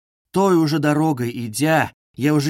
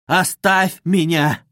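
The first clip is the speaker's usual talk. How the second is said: slow anguished cry; 3 semitones higher, 4 dB louder, slower than usual. Acted. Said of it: "вскричал он вдруг в судорожной тоске".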